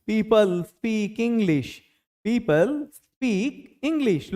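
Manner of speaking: teacher dictating a sentence, very slowly; very slow drill. Shown as a demonstration. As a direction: stretch each word out slowly. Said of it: "ये command हमको इस तरह से करना होता है".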